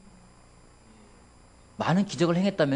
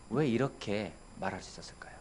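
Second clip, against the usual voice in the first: whisper; 5 semitones lower, 10 dB quieter than usual. Real, not acted. Preacher drops to a question.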